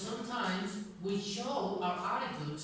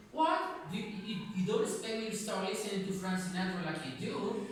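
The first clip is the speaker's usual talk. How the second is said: dismissive rejection; faster than usual. Retold or imitated. Woman rejecting the man's wish that she change, dismissive. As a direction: push back with a startled "What?", then a quick retort. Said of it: "it's like she's not accepting".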